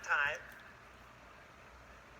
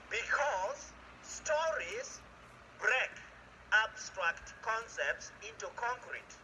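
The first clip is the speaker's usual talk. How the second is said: drawn-out stories; much slower than usual. Real, not acted. Professor to audience, stretching out stories. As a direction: savor the word like a storyteller.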